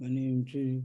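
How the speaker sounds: very low, very quiet slurred mumble. Told to pronounce words fully, answering what your name is; mumbled, unclear speech. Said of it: "Understand what you're saying?".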